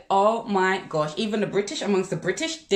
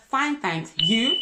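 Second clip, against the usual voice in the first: short polite reply; slower than usual. Shown as a demonstration. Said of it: "If you're not a person of many words".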